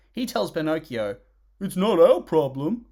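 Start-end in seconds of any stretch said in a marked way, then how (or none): 1.6-2.9 mock callous retort. Mocking the horse's callous line.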